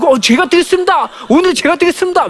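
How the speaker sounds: high, bursting eagerness to help; eager child volunteering. Retold or imitated. Child eagerly volunteering to fetch the teacher's water, high and excited.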